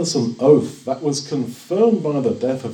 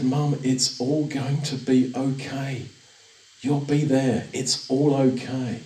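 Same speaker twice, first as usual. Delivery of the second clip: softer, gentle comfort to a dying mother; gentle reassurance; 4 dB quieter than usual. Retold or imitated. Son comforting his dying mum, quiet and gentle. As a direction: hush and reassure her kindly.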